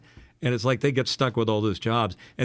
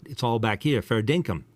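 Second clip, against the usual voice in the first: rough attempt at an Australian accent; Aussie accent. Shown as a demonstration. Voice actor showing how Australians talk, in an Aussie accent. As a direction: talk Australian from the back of the throat. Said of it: "wanted me to do an Aussie accent".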